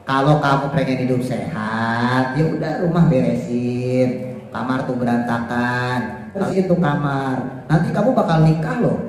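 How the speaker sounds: put-on a parent gently persuading the child to tidy up; gentle parental advice. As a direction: advise the child kindly, no orders. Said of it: "ngomongnya baik".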